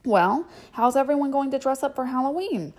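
high, cheery mother voice; brightly change the subject; bright chatter. Acted. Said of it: "tried to brighten this present meal".

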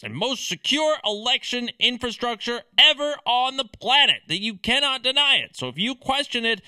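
rattled-off sarcastic scolding; mock indignation. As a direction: parrot a self-righteous official line, mockingly. Sarcastically parrots election defenders' scolding.

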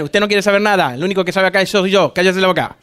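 put-on dad telling the child only he knows, in a low stern voice; gruff father. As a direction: play the bossy father laying down the law. Father scolding questioning child.

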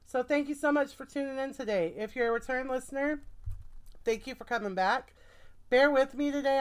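breathless, getting over the flu; short of breath. Real, not acted. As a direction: talk a little winded, air running short. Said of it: "I know I sound short of breath".

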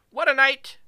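high, loud excited cheer; excited outburst. Real, not acted. Streamer cheering for manager Anna's big night, excited. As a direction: cheer it out for her.

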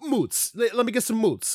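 moots said as mootz for mozzarella; mock Philly moots. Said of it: "And I'm like".

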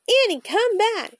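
raven calling out. A narrator's reading. Jack to Annie flying away, high raven call. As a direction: call her back in a high bird voice. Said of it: "Jack croaked".

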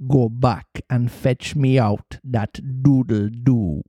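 slow, steely command. Acted. Hook sending his man back into the cabin, steely. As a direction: order it slowly, deadly serious. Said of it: "in his most steely voice".

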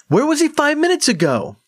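angry retort. Acted. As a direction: fire back accusingly. Crethin angry.

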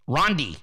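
"Rondi" with Ron and Dee slurred into one word; "Rondi", low, Ron-Dee blurred together; mock the old "Rondi" blur; run together. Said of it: "He sounded like Rondi".

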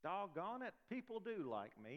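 mock self-affirmation, starting high; light imitation of someone talking himself into it; Stuart Smalley. Preacher repeats the mirror affirmation, lightly mimicking Stuart Smalley. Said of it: "Y'all remember Stuart Smalley?".

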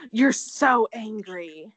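loud, slow mock accusation of Denise; Lisa Rinna impression. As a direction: ham up the reality star's accusation. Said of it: "As Lisa Rinna would say".

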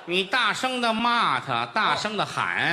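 emphatic urging. Retold or imitated. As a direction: pump her up to fight back. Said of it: "李菁说：". (大声慢慢地鼓动)

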